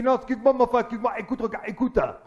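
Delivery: put-on high, loud protest in caricature Japanese accent; indignant old man, hammed-up Japanese accent; mock Japanese accent. Old Japanese man objecting from the back, mock Japanese accent. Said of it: "un problème avec un vieux japonais".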